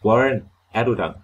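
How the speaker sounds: loud call down the hole; shouted down. Acted. Carter shouts down to Warren, a loud call. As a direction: call out anxiously. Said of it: "Igen råbte jeg ned".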